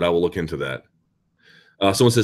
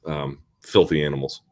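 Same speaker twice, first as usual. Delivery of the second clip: usual speaking voice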